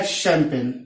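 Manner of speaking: शैंपेन begun with a SH sound. Shown as a demonstration. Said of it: "फिर श हो गया".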